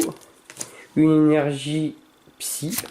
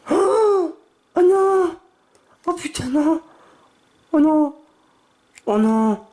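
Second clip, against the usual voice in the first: high-pitched shrieks of disbelief; excited shrieks; 4 dB louder, slower than usual. Real, not acted. Collector pulling a rare card, high excited shrieks. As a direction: shriek it out, you can't believe the pull.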